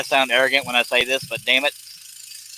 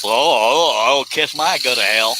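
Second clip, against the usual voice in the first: 1 imitating a voice; slower than usual. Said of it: "I got all kinds of voices".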